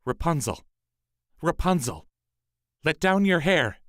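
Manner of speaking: the prince copying the witch's call. A narrator's reading. Prince imitating the sorceress to reach Rapunzel, calling. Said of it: "he went to the tower and called out".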